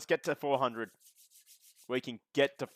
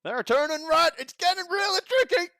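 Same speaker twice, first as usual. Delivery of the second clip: much higher, loud hammed-up redneck hillbilly accent; redneck commentator; 8 dB louder than usual. Streamer commentating the race for chat in a hammed-up redneck hillbilly accent. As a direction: call the race like an excited hillbilly. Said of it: "comment one race with a U S A hillbilly redneck accent".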